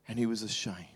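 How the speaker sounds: whispered, almost no voice; hushed whisper. A narrator's reading. Preacher telling the church of Adam's shame in a whisper. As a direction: breathe the words out in a whisper.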